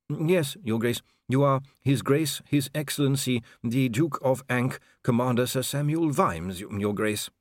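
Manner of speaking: high, slow reciting of titles; deferential official. Acted. Voices Inigo, fussy official.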